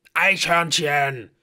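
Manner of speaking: loud, high, drawn-out yell; panicked scream. A narrator's reading. Blitzen warns the others, screaming it long. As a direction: scream the word as an alarm. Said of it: "schrie Blitzen".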